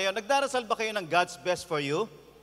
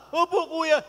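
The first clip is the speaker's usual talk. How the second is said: a higher, louder eager yes; eager young man; 7 semitones higher, 6 dB louder than usual. Retold or imitated. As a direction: answer eagerly like a smitten younger guy. Counselee eager answer, higher. (masigla at mataas na sagot ng binata)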